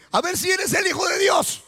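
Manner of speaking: a hint of a taunting devil, sowing doubt; tentador desafiante. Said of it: "viene la tentación y le dice". (tentador que reta con voz más aguda)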